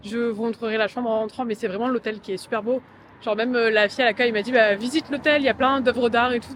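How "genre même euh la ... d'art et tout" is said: shouting over wind. Real, not acted. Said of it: "avec le vent".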